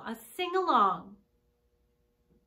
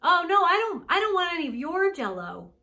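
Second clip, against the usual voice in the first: loud, higher-pitched protest at first; emphatic refusal; 4 semitones higher, 5 dB louder than usual. Acted. Visitor refusing Gran's Jell-O, emphatic and loud. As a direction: hurriedly turn down the offer, voice raised.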